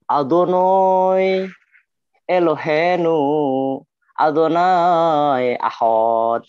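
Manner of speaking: lantunan Yaman dengan A menjadi O: "Adonoi", "Ahod"; dialek Yaman. Shown as a demonstration. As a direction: lantunkan lambat gaya Yahudi Yaman. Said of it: "saya membaca dari dialek Yaman". (dialek Yaman, vokal panjang)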